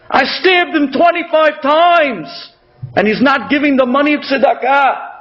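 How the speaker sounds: high, impassioned outcry of remorse; retold anguished scream. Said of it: "he starts to scream".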